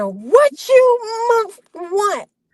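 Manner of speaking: very high, swooping, drawn-out scream. Retelling someone screaming from across the street: imitating someone screaming. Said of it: "I hear this screaming".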